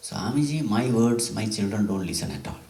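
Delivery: high, exasperated parent's lament; complaining parent. Retold or imitated. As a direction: whine about the children to the swami. Complaining parent quoted to swami.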